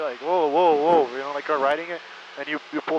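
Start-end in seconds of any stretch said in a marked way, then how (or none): 0.2-1.1 calling whoa to a horse, a bit louder; steady a horse with a firm whoa; horse rider's whoa. Retold or imitated. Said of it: "kinda like a horse".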